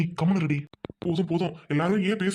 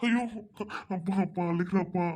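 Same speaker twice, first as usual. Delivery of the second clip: crying out to the elders; tearful distress. Acted. Husband hears his wife crying in labour, tearful and helpless. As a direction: plead as if about to break down. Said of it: "நீயே அழுகிறியாயா".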